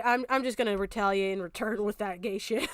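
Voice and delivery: ordinary talk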